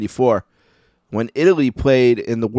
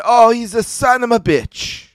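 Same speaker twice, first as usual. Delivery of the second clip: put-on much higher, louder, slow indignant old nonna curse; old grandma cursing; 12 semitones higher, 4 dB louder, slower than usual. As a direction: spit the insult out like an outraged old lady. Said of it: "She said".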